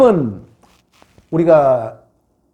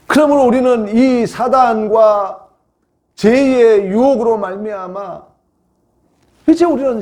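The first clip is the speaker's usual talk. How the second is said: slow, raised pulpit delivery; emphatic preaching; 9 semitones higher, 6 dB louder, slower than usual. Real, not acted. Preacher concluding on Satan and sin, emphatic. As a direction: weigh out each phrase forcefully.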